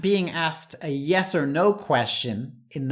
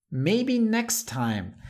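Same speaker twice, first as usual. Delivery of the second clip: gentle letdown; 6 semitones higher, slower than usual. Shown as a demonstration. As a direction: decline kindly so it doesn't hurt. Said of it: "let someone down gently".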